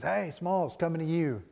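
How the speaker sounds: calling out. Retold or imitated. Benny calling to Smalls in outfield.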